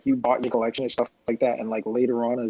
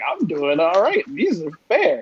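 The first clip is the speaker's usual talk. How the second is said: imitated self-reassurance; 6 semitones higher than usual. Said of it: "I'm like".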